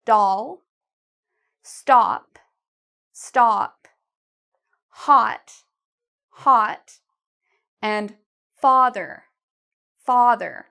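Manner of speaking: doll, stop, hot, father each with a wide ah; open ah vowels. Shown as a demonstration. Teacher modelling ah words for learners to copy. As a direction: model each word slowly, mouth wide. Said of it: "notice how big my mouth gets".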